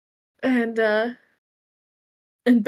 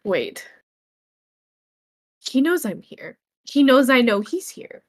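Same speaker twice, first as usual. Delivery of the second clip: a mild ranting build, louder on shown himself; agitated muttered rant; 3 semitones higher, 3 dB louder than usual. Acted. Finn rants to himself about Valor, mildly agitated. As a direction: mutter it, getting worked up. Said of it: "rant again under his breath".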